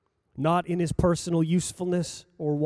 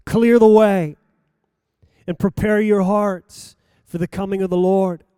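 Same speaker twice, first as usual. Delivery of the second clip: thunderous cry; 6 dB louder than usual. Acted. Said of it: "I am an urgent, thunderous voice crying out".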